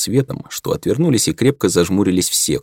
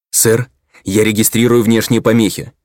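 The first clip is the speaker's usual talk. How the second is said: worried; 3 semitones higher, 3 dB louder than usual. Acted. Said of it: "взволнованно произнёс".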